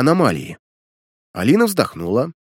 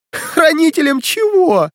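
high, slow mocking laugh-question; chuckling; 4 dB louder, slower than usual. A narrator's reading. Alina scoffs at his keeper title, laughing. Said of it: "Алина хохотнула".

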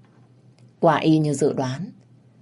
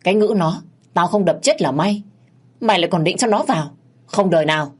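angry mother; 3 semitones higher, 4 dB louder, faster than usual. Acted. Mother refuses angrily.

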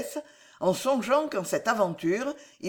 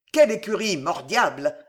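impatient interruption; 4 dB louder than usual. Acted. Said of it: "interrompit Pardeillan".

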